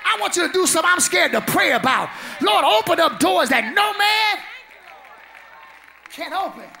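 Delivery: hollered sermon line over music; preaching. Real, not acted. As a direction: preach it out full force. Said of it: "preaching climax over music".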